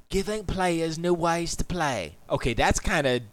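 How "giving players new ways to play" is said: slow British accent read. Shown as a demonstration. Streamer reads the next bullet in a British accent. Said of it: "I gotta do it in a British accent".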